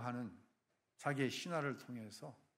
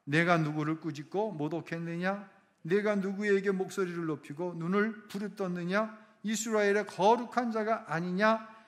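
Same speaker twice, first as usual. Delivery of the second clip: scripture reading; 3 semitones higher, 6 dB louder than usual. Shown as a demonstration. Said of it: "자, 읽겠습니다".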